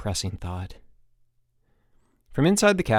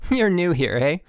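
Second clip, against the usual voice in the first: high, bright, louder chipper coach; sunny camp-coach voice; 8 semitones higher, 5 dB louder than usual. Acted. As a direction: beam at the new kid. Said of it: "said Dave brightly".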